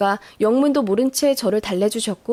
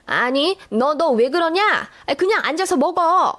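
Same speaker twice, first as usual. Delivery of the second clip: mildly panicked, higher-pitched protest; 4 semitones higher than usual. Acted. Mother-in-law blocking the fridge from her daughter-in-law, panicked. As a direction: stammer a little, pitch climbing in alarm. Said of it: "기겁하시면서".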